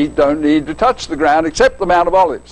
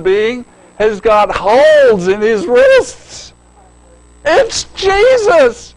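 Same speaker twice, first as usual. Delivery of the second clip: excited laughter; 4 semitones higher, slower than usual. Real, not acted. Preacher picturing the disciples' shock, laughing excitedly. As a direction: build to the shout of recognition. Disciples realize it's Jesus.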